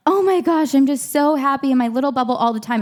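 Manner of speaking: put-on bubbly delight; mock gushing. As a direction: gush as if blissfully happy, only pretending. Mocks the ideal of a happy mom.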